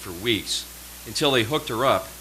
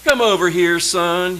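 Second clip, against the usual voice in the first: loud, higher barked summons, a hint of southern drawl; commanding call; 9 semitones higher, 9 dB louder than usual. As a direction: call the cadet over like a drill officer. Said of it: "he said in that thick southern drawl".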